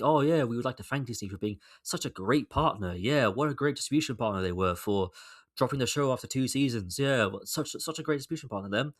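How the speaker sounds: mock-gushing corporate thank-you, dripping sarcasm; sarcastic mock thanks. Vlogger mocking the BBC's statement thanking Disney, sarcastic. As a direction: play the BBC's fake gratitude to Disney with an eye-roll. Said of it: "they were like".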